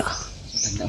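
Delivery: breathy hushed whisper. Real, not acted. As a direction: whisper so no one hears. Hiding, whispering to friend.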